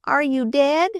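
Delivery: high, frightened cry. A narrator's reading. Tearful sister running to her hurt brother, frightened. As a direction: cry out in fear for your brother. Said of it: "cried Flossie".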